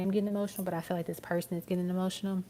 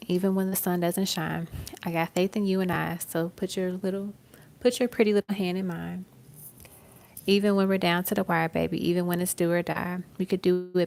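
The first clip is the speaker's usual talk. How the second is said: lyric recitation; 4 dB louder than usual. Acted. Recites lyric over music.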